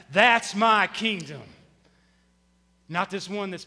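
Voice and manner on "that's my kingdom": louder call. Shown as a demonstration. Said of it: "Say it loud".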